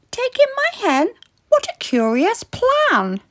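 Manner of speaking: high, whiny plea for help; pleading old lady. Acted. Old lady begging the wise old man for help, high and pleading. Lady's surprised reply.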